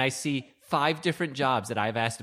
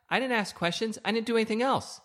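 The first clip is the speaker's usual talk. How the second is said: 1 exasperated; 7 semitones higher than usual. Real, not acted. Husband defends himself, exasperated.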